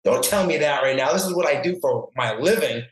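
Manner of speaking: mock-indignant protest at a careless nurse; retold anger. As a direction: replay the outburst, a touch exasperated. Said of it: "I got, like, mad".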